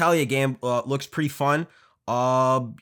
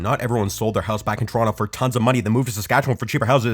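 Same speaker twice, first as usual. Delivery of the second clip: building rant; 7 dB louder, faster than usual. Acted. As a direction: rant faster and louder to the end. Escalating jealous rant at friend.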